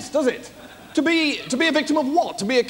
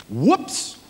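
mock falling cry; 7 semitones lower than usual. Hamlet falls off the battlements.

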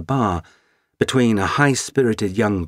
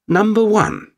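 announcing; 13 semitones higher, 6 dB louder than usual. Acted. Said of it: "adding a pause for dramatic effect".

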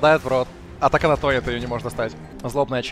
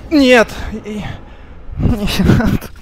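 shouting; 6 semitones higher, 8 dB louder, much slower than usual. Real, not acted. Shouts at game.

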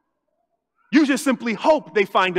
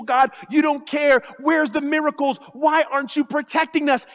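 angry cry to God; 4 semitones higher than usual. Retold or imitated. Grieving believer shouting at God, angry. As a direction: throw the blame at God. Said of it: "How could he allow".

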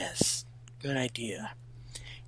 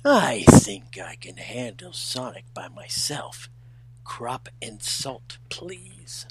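whispery prince; slower than usual. Acted. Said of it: "Let me try that again".

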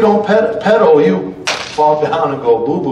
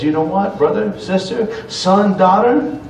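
God speaking tenderly; 2 semitones higher than usual. Pretend. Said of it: "God knows and says".

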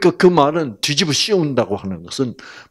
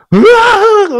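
put-on high, loud wail of a crying child; loud imitated child's wail; 12 dB louder, much slower than usual. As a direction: bawl like a little girl. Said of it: "울면서 막".

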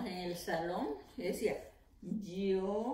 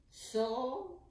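split into syllables; 4 semitones higher than usual. Shown as a demonstration. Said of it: "¿Cuántas sílabas tiene la palabra sopa?".

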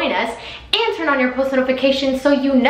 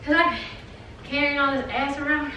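feigned puffing, broken phrasing; pretend out of breath; 6 dB quieter than usual. Pretending to carry a new butt, mock winded. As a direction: pause as if winded, then continue softer. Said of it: "I'm out of breath".

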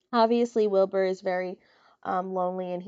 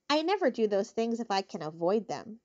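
sour; 3 dB quieter than usual. Acted. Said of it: "replied the rat sourly".

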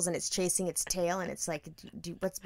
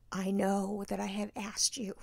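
tearful slow plea; 6 dB quieter, slower than usual. Retold or imitated. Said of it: "that's how I'm talking".

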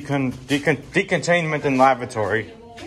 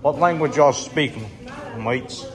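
greeting the aliens in a poor fake Australian accent; terrible Australian accent; 2 semitones higher, slower than usual. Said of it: "I have a terrible Australian accent".

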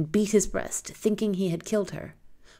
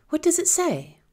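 whispered question; 11 semitones higher, 3 dB louder than usual. Acted. Girl asks robber quietly.

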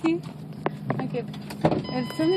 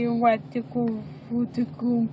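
imitating baby babble; 2 semitones lower, 4 dB quieter, slower than usual. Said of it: "Did you say".

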